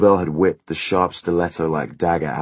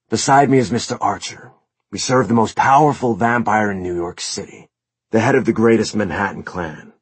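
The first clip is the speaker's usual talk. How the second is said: cold, formal creature voice; eerie servant creature voice; 5 semitones higher, 6 dB louder than usual. Acted. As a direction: speak like a proud undead servant. Subjugate voiced through several lines.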